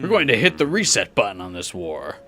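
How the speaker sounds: corny villain. Acted. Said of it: "why you gotta say it like a corny villain".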